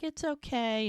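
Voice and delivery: lightly acted reassurance to a crying baby; soothing the baby. Retold comforting of crying baby.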